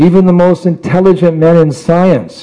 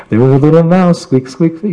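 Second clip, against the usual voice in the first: lively storytelling; 4 semitones higher than usual. Shown as a demonstration. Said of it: "You have to tell in a certain way like it's new".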